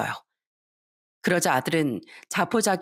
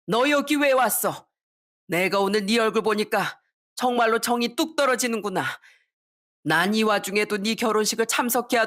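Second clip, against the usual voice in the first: exasperated parent, pitch raised; angry reproach; 3 semitones higher than usual. Acted. Mother tells son she has lost affection, angry reproach. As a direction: let hurt indignation come through.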